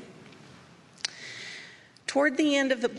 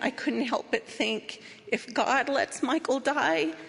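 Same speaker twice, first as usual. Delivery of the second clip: normal talking voice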